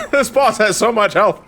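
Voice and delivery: real laughter. Real, not acted. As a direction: laugh helplessly while getting the words out. Helpless laughing over the game.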